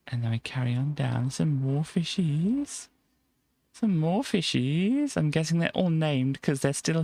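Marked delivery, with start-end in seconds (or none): 1.3-2.9 drawn-out slow sing-song with a rising end; first lilting take. Acted. Spotting fish, said twice. 3.7-5.2 higher sing-song. Acted. Spotting fish, said twice.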